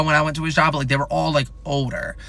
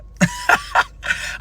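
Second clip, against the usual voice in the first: very high squeal of a laugh. Real, not acted. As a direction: shriek with laughter. Laughing at the screenshot.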